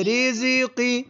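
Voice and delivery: high-pitched model reading. Shown as a demonstration. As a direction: lift it for the pupil to copy. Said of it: "ऊंची आवाज में".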